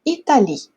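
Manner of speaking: "Italie" stopped on a stressed final I; silent final E. Shown as a demonstration. Teacher repeats the French example, silent final E. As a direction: model "Italie", leaving the written E unspoken. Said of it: "o E a gente não pronuncia".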